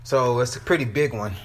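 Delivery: winded from climbing stairs; out of breath from the steps. Real, not acted. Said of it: "sound like I'm out of breath".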